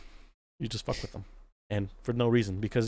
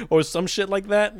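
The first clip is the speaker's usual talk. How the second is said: usual speaking voice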